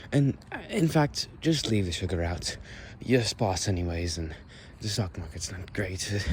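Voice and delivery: lightly played posh British character; Victorian British accent. Shown as a demonstration. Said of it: "A more Victorian style one".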